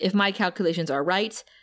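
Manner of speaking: normal talking voice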